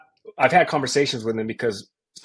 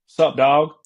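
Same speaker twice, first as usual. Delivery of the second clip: Randy Moss drawl; 5 semitones higher, 8 dB louder than usual. Retold or imitated. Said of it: "so, like, super Southern draw".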